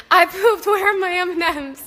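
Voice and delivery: put-on lightly high little-kid shout; a hint of a gleeful toddler. Toddler yelling through the house during the birth, lightly high. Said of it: "running around the house screaming".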